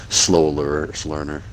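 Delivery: trips over "lear-" mid-word, then restarts "learner"; stumbling over word. Real, not acted. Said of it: "Nice speech impediment".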